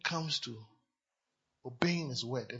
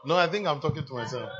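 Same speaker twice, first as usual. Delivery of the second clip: louder, pressing the point home; loud repeat; 3 semitones lower, 6 dB louder than usual. Real, not acted. Preacher repeats himself to the congregation, shouting. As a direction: call it out loud to the whole room.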